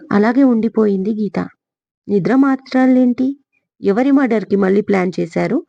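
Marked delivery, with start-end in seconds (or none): 2.1-5.6 surprised question. Acted. Sasi, hearing of the pills, asks in surprise. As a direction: blurt it out, caught off guard. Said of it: "ఆశ్చర్యంగా అడిగాడు శశి".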